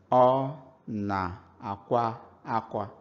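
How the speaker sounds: "Ọ na-akwa akwa" said slowly as a flat statement, falling at the end; slow, careful teacher's read of "Ọ na-akwa akwa"; Igbo statement tone. Shown as a demonstration. Teacher models the statement for learners, slow and careful. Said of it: "means she's crying".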